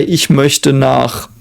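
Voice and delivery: "Ich möchte nach" spoken very slowly, word by word; slow demo. Shown as a demonstration. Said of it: "you would say".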